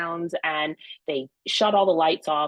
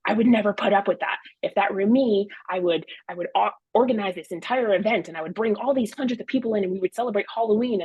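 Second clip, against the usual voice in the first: retold kitchen rant, gathering speed; mild mock yelling; 3 semitones higher than usual. Wife retells yelling at husband in the kitchen, worked up. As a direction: get worked up, racing into the big plan. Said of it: "yelling and screaming at him".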